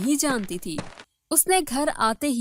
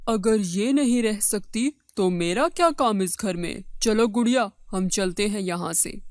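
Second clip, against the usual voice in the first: firm, lower husband voice; indignant husband; 3 semitones lower than usual. Acted. Husband threatening to leave with his new wife, indignant. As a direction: lay down an ultimatum and leave.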